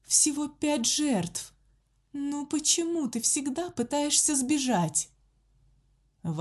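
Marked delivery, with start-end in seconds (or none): 0.0-5.1 slow, high, eerie woman's voice; a sinister nun crooning; creepy nun voice. A narrator's reading. Nun muttering to victim.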